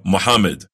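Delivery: Muhammad said short and quick with a single m; Muhammad with no held mm; wrong pronunciation. Shown as a demonstration. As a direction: another wrong Muhammad, clipped.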